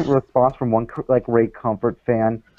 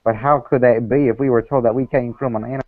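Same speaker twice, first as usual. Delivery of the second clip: put-on Southern accent. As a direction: read it as a Southern creationist fan. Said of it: "I couldn't handle the accent".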